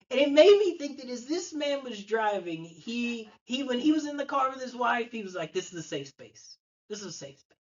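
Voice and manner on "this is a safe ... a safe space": self-soothing murmur. Retold or imitated. Patient calming himself in car.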